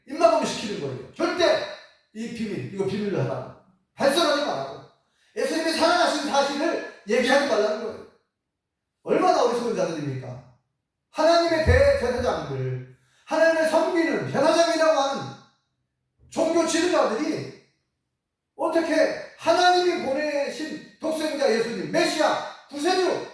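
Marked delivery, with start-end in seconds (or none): 1.1-8.1 priests hushing the soldiers, raised and higher; mock stern command. Chief priests ordering soldiers, a raised stern command. 9.0-23.3 preaching at full force. Acted. Preacher rebuking the foolish priests, high and loud.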